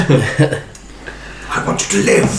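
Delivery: slow, breath-only whisper; dramatic whisper. Acted. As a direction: draw it out as a hushed plea. Dramatic in-game plea to a player.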